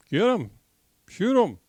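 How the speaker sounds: short, high-pitched hunting command; urgent hunter's call. Retold or imitated. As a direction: urge your partner to shoot. Cajun urging banker to shoot in joke.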